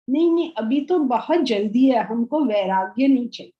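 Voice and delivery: rattled off fast, brushing it aside; fast dismissive quote. Retold or imitated. Teacher mimicking society's hurried refusal, fast. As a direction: rush the refusal like a nervous excuse.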